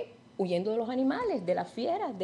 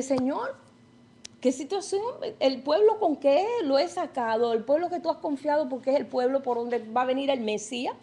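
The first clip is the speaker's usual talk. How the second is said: higher, troubled cry to the Lord; despairing Moses; 4 semitones higher than usual. Acted. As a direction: ask helplessly what now, voice raised.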